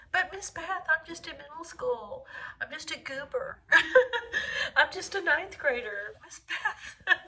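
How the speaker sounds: student whine. Retold or imitated. Student answers teacher.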